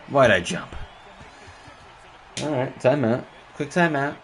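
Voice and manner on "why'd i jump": "Why'd I jump?" shouted in real frustration; frustrated shout. Real, not acted. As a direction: yell it at yourself over the mistake. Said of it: "Oh, why'd I jump?".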